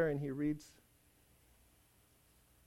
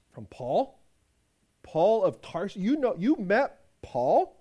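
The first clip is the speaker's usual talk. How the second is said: astonished questions, a little louder and slow; surprised; 5 dB louder, slower than usual. Acted. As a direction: disbelief at hearing the name. Master astonished at Paul's name.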